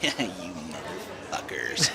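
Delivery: low, quiet, smug mutter as a manager. Retold or imitated. Mocking managers caught on a customer's recording, smug. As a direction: imitate a smugly amused manager under your breath. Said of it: "like, so smugly being like".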